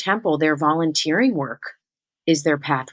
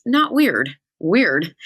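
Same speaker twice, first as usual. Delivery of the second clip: mock middle-schooler; 2 semitones higher, much slower than usual. Shown as a demonstration. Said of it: "Do you like that I say that".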